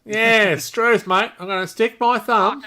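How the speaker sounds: hammed-up broad Australian accent; playfully exaggerated Australian slang delivery; ocker Australian. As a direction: lay on the ocker Aussie twang. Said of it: "'cause we're really ocker".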